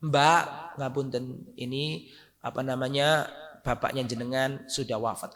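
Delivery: retelling a careful, hushed death notice; gently breaking bad news. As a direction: break it to her softly and haltingly.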